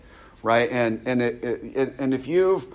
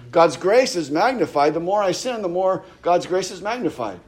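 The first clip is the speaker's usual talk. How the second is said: a lightly voiced, higher, boastful false teacher; a hint of a smug preacher, pitched up; mock false teacher; 5 semitones higher than usual. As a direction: mimic the teacher bragging about sinning. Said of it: "who taught that".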